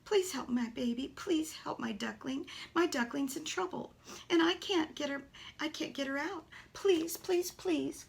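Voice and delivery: put-on mother duck pleading for her trapped baby. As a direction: beg for help like a frightened mother. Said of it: "Mama Duck was trying to tell me".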